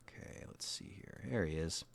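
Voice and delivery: whispering to himself; hushed aside as he spots him; soft whisper. Real, not acted.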